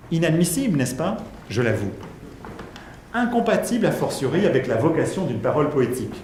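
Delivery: measured, emphatic reading of a philosophical text; lecture à voix haute. Acted. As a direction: read the extract out, marking each phrase. Lit un extrait de Derrida. (lecture posée et appuyée d'un texte)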